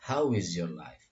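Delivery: "How is your life" run together as one; linked, low-pitched "How is your life"; words linked together. Shown as a demonstration. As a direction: join "How is your life" into a single flow. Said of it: "dibacanya disatukan di sini".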